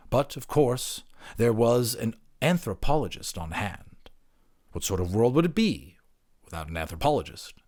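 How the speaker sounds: measured storyteller reading a fable; story narration. A narrator's reading. Narrator telling the listeners a fable, calm storytelling. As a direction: read it like a bedtime fable.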